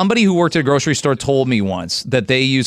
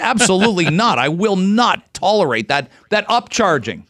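higher-pitched, emphatic comic refusal; mock indignation; 5 semitones higher than usual. Customer refusing an envelope upcharge, mock indignant. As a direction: refuse with hammed-up principle, pitch held up.

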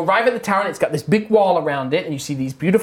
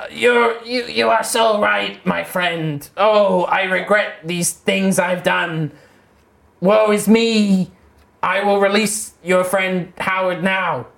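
regretful spirit; slower than usual. Acted. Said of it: "The spirit says".

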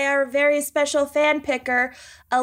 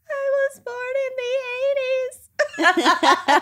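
laughing retort; 13 semitones higher, slower than usual. Retold or imitated. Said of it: "And I was like".

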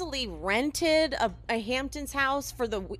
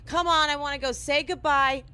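mock shout; 4 semitones higher, 4 dB louder than usual. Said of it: "John is now shouting things".

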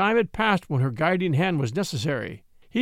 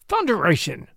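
sharp agonized cry. Acted. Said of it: "came in sharp, agonized tones".

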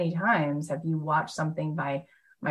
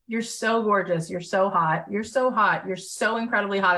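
gushing; 4 semitones higher than usual. Retold or imitated. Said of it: "I go".

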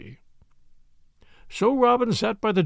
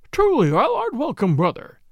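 put-on frail breathless old person; 6 semitones higher, 4 dB louder than usual. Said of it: "said the old man".

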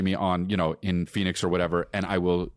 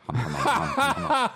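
mimicked humming; slower than usual. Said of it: "Huh, you guys".

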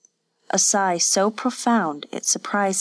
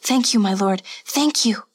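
tearful gratitude; 3 semitones higher than usual. A narrator's reading. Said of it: "her eyes brimming with tears".

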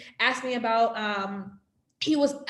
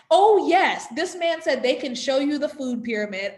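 sarcastic mock enthusiasm; 3 semitones higher, 4 dB louder than usual. Mocking the doctor's suggestion.

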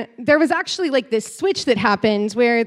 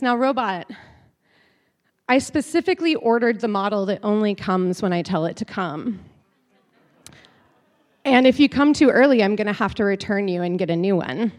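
sinister master; 4 semitones lower than usual. Retold or imitated. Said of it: "he's got this sinister look in his eyes".

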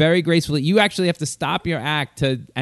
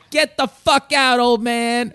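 retold yell; 10 semitones higher, slower than usual. Comic telling off the groom's father, hammed-up high yell. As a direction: bark it out like a fed-up comic. Comedian yells at heckler father.

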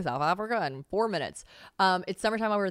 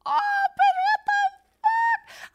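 much higher, louder, slow drawn-out disbelief; shocked outcry; 7 dB louder, much slower than usual. Retold or imitated. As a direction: wail it in outraged shock. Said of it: "I was like".

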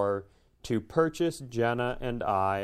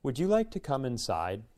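softly imitating a kindly host's invitation; quietly polite, welcoming question; calm and kind; 5 dB quieter than usual. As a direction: retell a gentle, unhurried offer. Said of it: "He goes very calmly and kindly goes".

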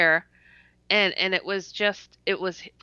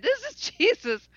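awed; 14 semitones higher than usual. Retold or imitated. Awed thought in her head.

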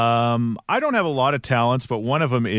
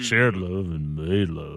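deep famous singer's voice with a rock-and-roll singer's tinge; 4 semitones lower, slower than usual. Retold or imitated. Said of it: "it's a little like a rock-and-roll singer".

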